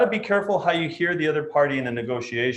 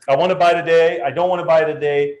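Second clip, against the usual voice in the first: flip-flopping client; 5 dB louder than usual. Acted. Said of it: "change their mind depending on their emotions".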